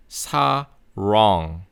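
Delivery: sarong with a curled English R; American R. Shown as a demonstration. Teacher modelling 사랑 as sarong, American R. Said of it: "say it as sarong".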